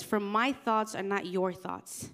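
slow, solemn reading of the verse; slow scripture reading. Shown as a demonstration. Pastor reading Isaiah to the youth group, slow and solemn. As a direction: let each word of the verse land slowly. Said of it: "Isaiah fifty-five eight nine says".

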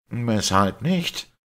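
drawn-out baffled question; a doctor stunned by the priest's doubt; astonished. A narrator's reading. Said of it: "mit begreiflichem Staunen".

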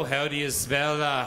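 slow mock telephonist; operator again. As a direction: drag it out like a bored operator. Operator replying slowly.

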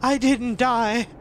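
loud, drawn-out victory cry; real ecstatic relief. Real, not acted. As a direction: stretch each word in disbelieving joy. Celebrates not dying in game.

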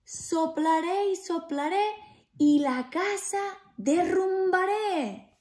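loud booming wolf threat; threatening wolf. Acted. Wolf threatening to blow the pig's house down, loud. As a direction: huff it out to scare them. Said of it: "y el lobo así lo hizo".

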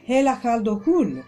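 "Hela Caldo Cool" sounded out as French; French pronunciation. Shown as a demonstration. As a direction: say "Hela Caldo Cool" as a French wordplay, letters run into a phrase. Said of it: "in francese proprio si pronunciano così".

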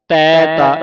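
ਤੈ ਤਾ as two distinct, firm words; words read separately. Shown as a demonstration. Teacher showing word division, ਤੈ and ਤਾ said separately. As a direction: keep ਤੈ apart from ਤਾ. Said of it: "ਇਹ ਵੱਖਰਾ ਵੱਖਰਾ ਪੜ੍ਹਨਾ ਹੈ".

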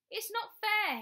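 put-on very high, loud childish yell. A narrator's reading. Bradley through the door to his mother, yelling. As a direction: yell it in a full tantrum. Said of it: "he yelled".

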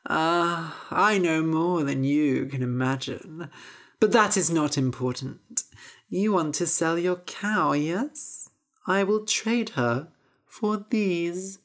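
creaky voiced crone greeting; old witch. Witch greeting Jack at the market, witchy voice. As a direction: lure the boy in, witchy.

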